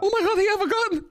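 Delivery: rattled off very fast through laughter; laughing panic. Real, not acted. Grandpa sees the officer's gun and laughs in fast panic. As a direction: blurt it out fast, laughing in disbelief.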